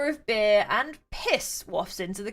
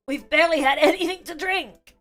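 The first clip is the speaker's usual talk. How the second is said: high, laughing tipsy denial; laughing drunk protest; 8 semitones higher, 5 dB louder than usual. Acted. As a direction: giggle through the lie.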